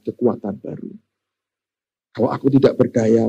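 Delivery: sincere tribute. Retold or imitated. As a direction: speak gently, like thanking those who carried you. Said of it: "kalimatnya bagus sekali".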